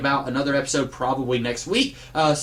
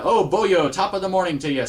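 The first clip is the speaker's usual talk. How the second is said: mock Irish lilt, lightly hammed up and higher; stereotypical Irish accent; 4 semitones higher than usual. Reviewer mocking comic-book accents, stereotypical Irish accent. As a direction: toss out a cartoonish Irish greeting. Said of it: "he would have a very stereotypical accent".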